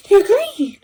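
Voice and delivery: mock society. Society labeling her, high dismissive mock. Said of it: "society will look at me and be like".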